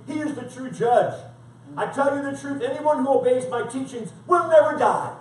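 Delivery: emphatic scripture declaration; forceful preaching. Acted. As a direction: answer the accusers firmly. Preaches Jesus' answer forcefully.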